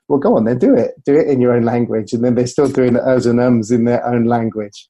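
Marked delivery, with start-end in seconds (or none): 0.1-2.1 rising, emphatic dare; a teasing, louder dare; challenging retort. Retold or imitated. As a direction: push them to just do it. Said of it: "I say".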